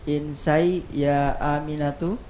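"Insai ya Aminatu" with a rise at the end; question intonation. Real, not acted. Student trying the command again, mistaken question intonation. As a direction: end "Aminatu" upward, as if asking. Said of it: "itu intonasi pertanyaan".

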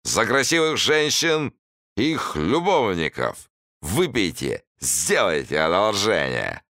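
slow, high swaggering hussar toast; drunk rambling toast. A narrator's reading. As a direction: raise a bullying drunken toast. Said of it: "входя в роль задиры гусара".

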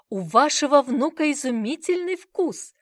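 high, loud gushing praise; exclaiming. A narrator's reading. Salesman gushing to grandfather over his grandson's taste, exclaiming. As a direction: flatter the buyer. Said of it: "воскликнул мужчина за прилавком".

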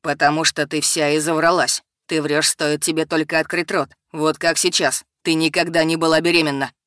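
низко и зло; angry man. Acted. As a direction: call her a liar to her face. Simon accuses her of lying.

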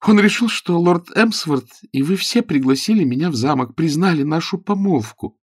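put-on young woman's voice. A narrator's reading. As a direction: play the earnest young girl explaining herself.

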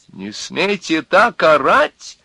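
high, indignant cry; woman shouting back. A narrator's reading. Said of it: "тоже закричала женщина".

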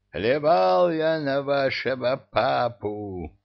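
roaring. Acted. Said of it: "взревел повелитель ифритов".

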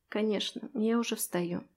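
soft, drowsy murmur; sleepy mumble. Acted. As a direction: mumble it half asleep. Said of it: "сонно пробормотала я".

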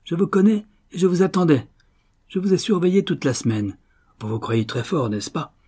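heated, high-pitched confrontation; acted angry gloating. A narrator's reading. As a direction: crow angrily at a caught burglar. Millionaire berates captured burglars.

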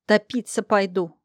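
snapping. Acted. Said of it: "огрызнулась зло".

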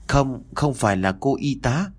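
put-on a light child's voice, insisting; frightened little boy. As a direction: deny it like a scared small boy. Frightened boy answers father. (giọng bé trai sợ hãi phủ nhận)

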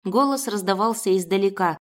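ordinary delivery

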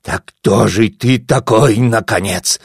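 slow, menacing hissed question; angry hiss. Acted. Vaso hisses at the mysterious narrator. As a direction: hiss it through his anger. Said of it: "зашипел Васо".

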